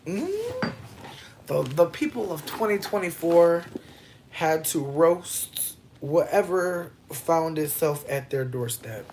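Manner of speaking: lightly voiced history narrator, slowed down; mock documentary narrator. Telling listeners about meat prices as mock history narration. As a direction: narrate like a history book, slowly.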